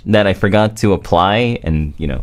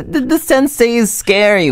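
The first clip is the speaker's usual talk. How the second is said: nervous fear; 11 semitones higher than usual. Acted. Panics about angry teacher.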